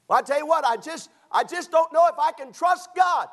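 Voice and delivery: high, loud, hand-wringing doubter; loud, high, fretful believer; doubting believer. Acted. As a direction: whine it like a worried churchgoer who can't let go. Preacher voices a doubting believer.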